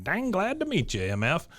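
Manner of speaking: lightly imitated Boston accent; a hint of Boston accent. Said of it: "in his best Boston accent".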